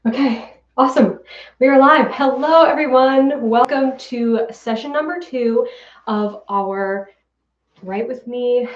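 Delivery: breathless from running upstairs; catching breath after the stairs. Real, not acted. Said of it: "I'm out of breath because I was just running upstairs".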